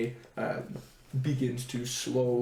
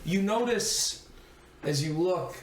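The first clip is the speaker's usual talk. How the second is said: slow, measured scene-setting; story narration. A narrator's reading. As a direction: paint the cold scene slowly. GM sets wintry scene.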